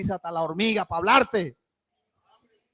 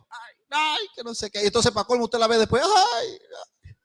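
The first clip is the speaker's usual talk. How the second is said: whining complainer. Retold or imitated. Preacher mocking a complaining churchgoer, whiny sighs. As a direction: moan like someone who finds fault in everything.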